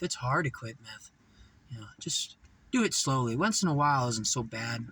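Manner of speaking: a hint of a smooth-talking snake; snake-like dealer. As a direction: coax gently like a sly dealer. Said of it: "the guy was like a snake".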